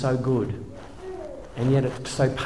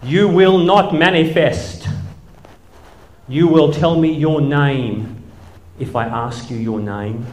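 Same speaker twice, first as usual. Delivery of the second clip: slow, louder commanding exorcist voice; preacher rebuking a demon, slow and loud; deliverance preacher; 3 semitones higher, 5 dB louder, slower than usual. Retold or imitated. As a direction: command the demon slowly and heavily. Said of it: "I hear".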